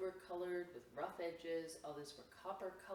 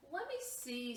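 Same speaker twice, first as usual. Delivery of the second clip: eager request; 9 semitones higher, 6 dB louder than usual. Acted. Eager brother.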